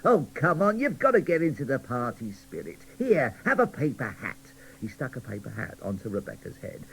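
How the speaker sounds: jolly show-off telling mottos; cheerful cracker cheering up gloomy dolls. Acted. Cracker jokes.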